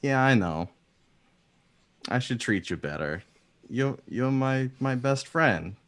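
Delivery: high, emotional owner gushing to a pet; high-voiced, devoted best friend; Valka. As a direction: pitch it up and gush at your bird. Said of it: "And Valka just goes".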